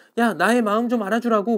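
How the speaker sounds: high, loud, fast pleading complaint.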